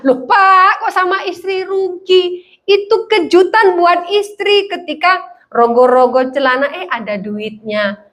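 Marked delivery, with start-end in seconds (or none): 0.1-6.7 mock protest. Chiding a stingy husband.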